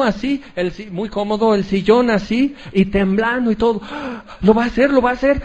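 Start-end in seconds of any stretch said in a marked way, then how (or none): 3.8-5.4 higher, rising cheer for an athlete; root hard as they near the finish; hushed gasp, then a thrilled cheer for the Olympian; excited fan. Retold or imitated. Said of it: "estoy gritando".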